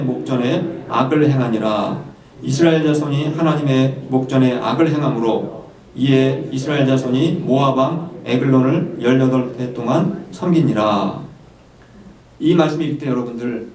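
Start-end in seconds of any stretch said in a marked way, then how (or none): 0.0-11.2 slow, measured congregational Bible reading; scripture reading. Acted. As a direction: lead the congregation through the verse, unhurried.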